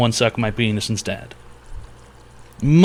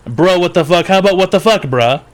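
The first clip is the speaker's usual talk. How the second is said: "Bruh, what the fuck?" higher and louder, hammed-up indignation; mock outrage; 5 semitones higher, 4 dB louder than usual. Real, not acted. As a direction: bark it back at chat, outraged. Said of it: "Let me turn it back on you".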